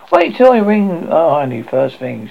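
mother joking she'll tell the neighbour, slow mocking; mocking crack. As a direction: savour the threat, slowly and gleefully. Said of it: "she cracked".

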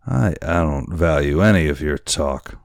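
lightly voiced tipsy boatswain; a hint of boozy scorn; drunken sailor. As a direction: stumble into a drunk dismissal. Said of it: "how drunken it appeared".

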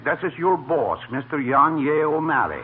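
lightly put-on Irish brogue; a hint of a stage Irishman; Irish accent. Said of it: "I changed my voice with Irish dialect".

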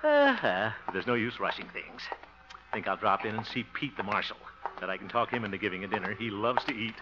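soft, low musing to himself; inner monologue aside. Acted. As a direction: think it aloud, half to yourself. Quiet aside to the audience.

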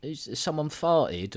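mock shocked actress. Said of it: "that Bardot's like".

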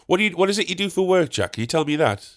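high-pitched imitation of a chatty labourer; nosy gardener. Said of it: "replaced all the mates with Jack".

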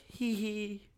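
mock tiny giggle. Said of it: "jokes like".

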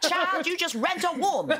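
high, slow Trinidadian lilt with a laugh; Trinidadian accent. Retold or imitated. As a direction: play the Trinidadian surrogacy lady, high and amused. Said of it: "That was an amazing accent".

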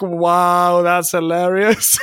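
drawn-out wow breaking into laughter; amused mock amazement. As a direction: act out being tickled, laughing as you finish. Acts out own amused reaction.

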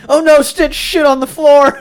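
high, loud, slow hammed-up alarm; mock panic. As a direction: cry out in fake horror, drawn out. Mock ride staff panicking.

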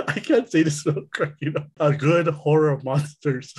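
trying not to laugh; cracking up. Real, not acted. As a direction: fight back giggles while speaking. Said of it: "What are you laughing for".

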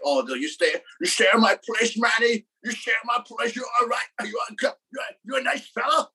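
high-pitched attempt at an Irish accent. Host imitating his Irish roommate offering a place, Irish accent. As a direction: put on a rough imitation Irish lilt. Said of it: "So that's the Irish accent?".

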